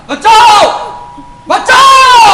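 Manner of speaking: high, loud mock scream for help; mock cry for help. Villain mocking her by screaming for help.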